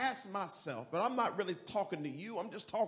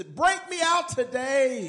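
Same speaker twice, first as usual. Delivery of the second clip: emphatic refrain; 4 semitones higher, 7 dB louder than usual. Real, not acted. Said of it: "say it one more time for emphasis".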